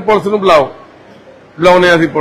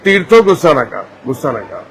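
softer, lower calming plea; soothing plea; 7 semitones lower, 4 dB quieter than usual. Real, not acted. Man calming his upset sister, soft soothing plea. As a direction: settle her down gently.

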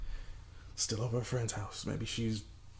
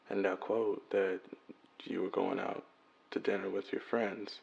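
worried message left on a phone; voicemail message; 4 dB louder than usual. Acted. Man leaving his missing girlfriend a worried voicemail. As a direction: leave an anxious, tender voicemail.

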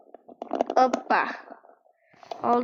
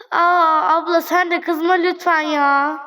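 whiny plea; 4 semitones higher, 3 dB louder than usual. Real, not acted. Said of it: "begging the girl customer".

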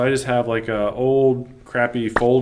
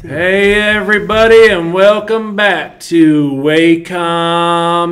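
slow, high, loud Texan drawl; Matthew McConaughey voice; 7 semitones higher, 8 dB louder, much slower than usual. Pretend. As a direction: lean back and drawl like McConaughey. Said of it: "a Matthew McConaughey voice".

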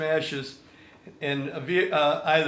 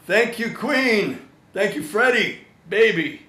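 loud, slow, drawn-out thanks; hammed-up gratitude to Queen; mock grateful cheer; 6 semitones higher, 6 dB louder, slower than usual. Songwriter thanking Queen for no rights, loud and slow.

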